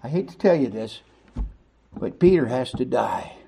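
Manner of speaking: hushed, grave Jesus voice lightly voiced; Jesus quietly telling Peter the hard truth; Jesus speaking. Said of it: "Jesus said".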